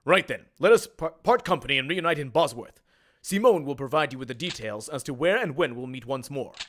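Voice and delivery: formal, measured game-hero speech; lightly voiced heroic prince. Prince requesting the duelist's services, lightly voiced formal hero. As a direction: address your champion like a noble prince, lightly acted.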